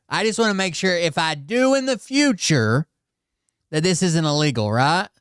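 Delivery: lightly mocking her questions; a hint of her pleading tone; imitating her. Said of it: "here's the setup".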